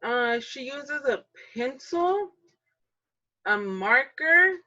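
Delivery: put-on slow, eager little kid answering; child pupil voice. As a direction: play a kindergartner naming things. Adult plays kindergarten pupil answering.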